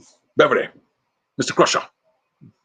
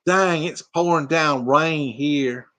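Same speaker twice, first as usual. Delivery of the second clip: slow, drawled Kentucky twang; Kentucky country accent; 3 semitones higher, much slower than usual. Retold or imitated. Imitating a Kentucky viewer, slow country accent. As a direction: stretch the vowels like a Kentucky country girl. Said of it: "she's Kentucky and she's country".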